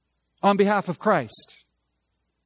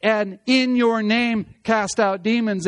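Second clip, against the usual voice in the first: slow, emphatic "in your name"; stress on "in your name"; 3 semitones higher, 3 dB louder than usual. Shown as a demonstration. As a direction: drive home "in your name" before the deed. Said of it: "The emphasis is upon that idea".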